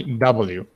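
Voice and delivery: "W" said clearly as double-u for the class to copy; model pronunciation. Shown as a demonstration. Teacher modelling "W" for Maria Jimena, careful and clear. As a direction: say "W" slowly and clearly, letter by letter. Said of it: "Repeat after me".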